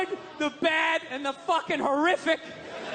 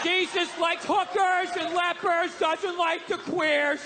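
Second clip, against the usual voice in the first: shouted blurt; slower than usual. Acted. Redneck blurting Sunday school answer.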